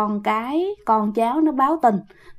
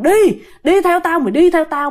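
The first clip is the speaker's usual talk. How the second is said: fierce command; 5 semitones higher than usual. Retold or imitated. Dead sister orders her elder to follow, fierce command. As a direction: demand that she follow. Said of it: "mà dữ lắm nha".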